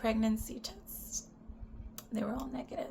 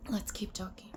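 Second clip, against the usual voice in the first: unvoiced whisper to the camera; 6 dB quieter than usual. Real, not acted. Whispering to her viewers to keep going. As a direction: breathe it out, no voice.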